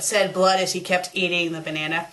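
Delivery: ordinary delivery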